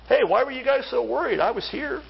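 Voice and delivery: lightly voiced Jesus, easygoing and reassuring; a relaxed hint of Jesus asking why they worried; casual Jesus paraphrase. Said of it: "That's how I read it".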